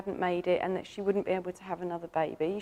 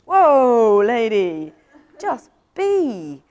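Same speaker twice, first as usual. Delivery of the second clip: calm wise dragon; 9 dB louder, much slower than usual. Acted. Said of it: "this really calm, really wise energy".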